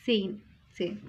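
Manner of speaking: सेन with a silent h; German zehn. Shown as a demonstration. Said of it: "एच silent होता है". ("एच" silent, सेन)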